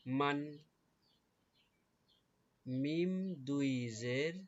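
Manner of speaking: slow, stretched মিম দুই, each answer set apart; drilled spelling recitation. Shown as a demonstration. Teacher repeating the sounds for pupils, slow drill recitation. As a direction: recite মান, মিন, মুন in an even drill. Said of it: "উচ্চারণগুলো আবার খেয়াল করি".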